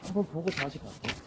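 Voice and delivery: slurring like a tipsy customer; pretend drunk. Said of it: "술 취한 척하고".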